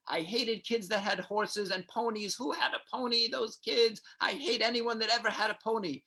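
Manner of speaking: high-pitched sitcom rant, imitated; Jerry. Retelling a sitcom dinner-party conversation about ponies, high mock rant. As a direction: imitate a comedian complaining, pitched well up. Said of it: "conversation of Jerry and Elaine say".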